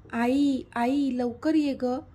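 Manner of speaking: mildly voiced shout across the house; calling out. Younger sister calling mother to sick sister, urgent shout. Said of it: "Mihika ओरडून बोलली".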